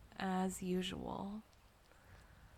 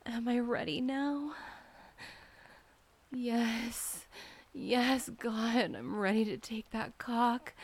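eager, louder; 3 semitones higher, 6 dB louder than usual. Acted. Building eagerness in roleplay.

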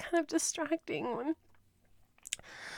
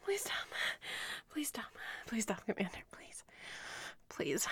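softer and softer please stop; fading pleas; 3 semitones lower, 9 dB quieter than usual. Acted. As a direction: plead until it barely comes out.

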